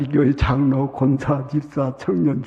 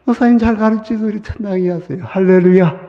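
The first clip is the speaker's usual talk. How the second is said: grateful congregant; 4 semitones higher than usual. Retold or imitated. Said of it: "여러분이".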